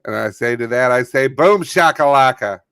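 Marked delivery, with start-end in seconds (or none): 1.3-2.6 put-on Kennedy accent. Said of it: "It's a little too Kennedy".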